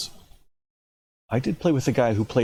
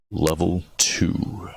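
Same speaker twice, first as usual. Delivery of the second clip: whispered heading; 2 semitones lower, much slower than usual. Acted.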